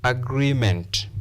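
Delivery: "agreement" slow, with GREE held long; "agreement" as a-GREE-ment, drawn out; stressed long vowel. Shown as a demonstration. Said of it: "We stress the first syllable".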